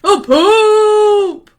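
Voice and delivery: loud, high cries for help; screaming policeman. Acted. Policeman stuck in traffic jam, screaming for help. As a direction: shout in bursts, the last drawn out. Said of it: "A policeman was screaming".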